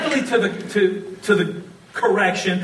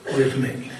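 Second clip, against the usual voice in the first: scolding quote; 2 semitones higher, much slower than usual. Retold or imitated. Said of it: "Have you ever heard someone say".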